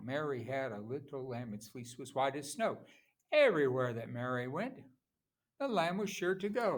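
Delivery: lilting poem recital marking its stresses; sing-song nursery rhythm. Shown as a demonstration. Teacher showing how a poem sounds, sing-song rhythm. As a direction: recite the nursery rhyme with a bouncing beat. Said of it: "That's how it sounds".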